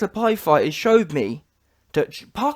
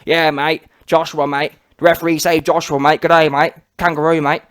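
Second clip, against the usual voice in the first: lower-pitched, mocking Aussie commenter; mock Australian accent; 5 semitones lower than usual. Vlogger mocking Australian commenters in a lower Australian accent. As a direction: lampoon the fans in an Australian twang. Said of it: "everyone's coming in the comments and saying".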